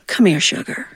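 gentle call. Retold or imitated. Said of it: "she would gently call us to the front".

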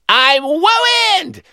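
"wooined" very high with w for r; shrill toddler "I'm wooined!"; says w for r. Retold or imitated. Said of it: "He sounded like Elmer Fudd".

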